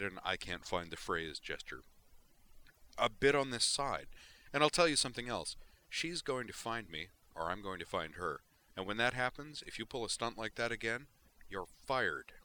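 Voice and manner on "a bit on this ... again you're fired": louder, higher furious threat; angry warning. Acted. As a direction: lay down the law to her. Griffin angrily lecturing Vision.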